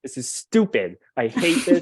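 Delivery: laughing mock frustration. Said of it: "That was the most frustrating part".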